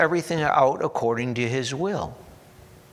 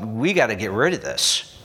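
mock panic; 4 dB louder than usual. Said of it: "they cry out".

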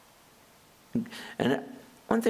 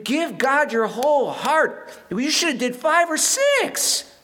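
indignant preacher rebuke, pitched up; prophet scolding; 9 semitones higher than usual. Retold or imitated. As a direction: demand zeal like a stern prophet. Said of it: "the prophet's like".

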